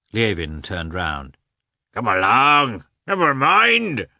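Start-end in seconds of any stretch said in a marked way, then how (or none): 1.9-4.1 louder, jolly call, slow on never mind; merry shout. A narrator's reading. Merry bearded peasant urges the hunters over, jolly loud call. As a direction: wave them over with a hearty holler. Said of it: "shouted a merry, bearded, red-faced peasant".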